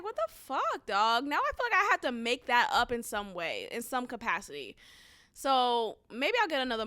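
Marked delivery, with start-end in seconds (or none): 0.0-1.2 incredulous. Retold or imitated. Reacting to bad appointment.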